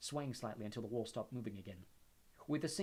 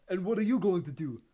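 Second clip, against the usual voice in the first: put-on urgent young Neville, lightly raised; 7 semitones higher, 12 dB louder than usual. A narrator's reading. Neville asks Harry what he'll do, urgently. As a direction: press him on his plan. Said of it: "said Neville".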